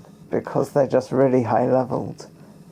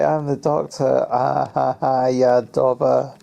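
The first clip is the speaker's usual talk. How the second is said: mocking taunt; 3 dB louder than usual. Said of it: "It's so disrespectful".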